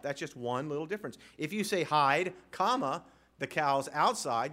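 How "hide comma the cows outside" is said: Hide, then a pause, then the cows outside said slowly; with the comma heard after Hide. Shown as a demonstration. The leather meaning, with a clear pause after Hide. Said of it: "that place where leather comes from".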